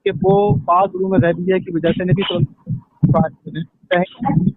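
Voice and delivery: choppy, cutting-out phone line; call dropping out. Real, not acted. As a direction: voice breaking up on a call. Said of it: "आवाज कट रही है इनकी".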